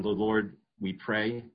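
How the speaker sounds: "Lord" stretched and stressed, slowly. Shown as a demonstration. Preacher showing the congregation the emphasis on "Lord". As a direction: lean on "Lord" in "the Lord we pray". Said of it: "Do you see the emphasis on".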